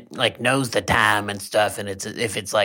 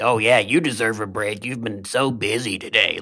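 sarcastic; 2 semitones lower than usual. Retold or imitated. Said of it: "like, all sarcastic".

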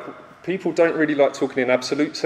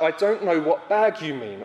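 slow, mildly strained retold protest; acting out exasperated explaining; frustrated higher voice; 3 semitones higher than usual. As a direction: plead innocence slowly, voice lifted a little. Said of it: "making my voice go higher and higher".

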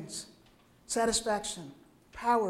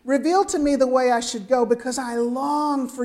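heartfelt reading; 3 dB louder than usual. Shown as a demonstration. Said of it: "Listen to the emotion in that voice".

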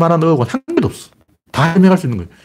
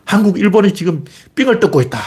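mock complaining; 6 semitones higher than usual. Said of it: "미국은".

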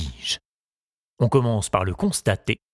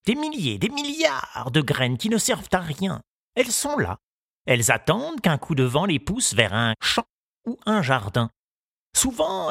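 lightly voiced old gardener, solemn and pitched up; 6 semitones higher than usual. The gardener telling Tistou the news, with a light old-man voice. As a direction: deliver the verdict gravely, a hint of an old man.

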